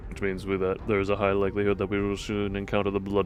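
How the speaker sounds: reading Faust's line. Acted. Streamer reading Faust's subtitle aloud, low and formal. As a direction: deliver it dry and formal like Faust.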